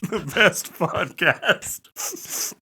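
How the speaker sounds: slow, drawn-out host intro; announcer voice. Acted. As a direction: stretch out the show name like an announcer.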